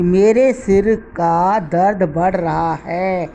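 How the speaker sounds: मेरे सिर का slowly, सिर kept apart from का; word-by-word pauses. Shown as a demonstration. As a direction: spell out the meaning slowly, each word separate, from मेरे to है. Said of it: "विराम देने से प्रयोग करने पर". (सिर और का अलग, धीरे-धीरे)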